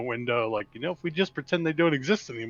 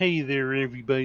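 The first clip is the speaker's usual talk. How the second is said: the most annoying voice ever. Explaining how to do a voice, demonstrating the most annoying voice ever. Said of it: "most annoying voice ever and then pitch it up higher".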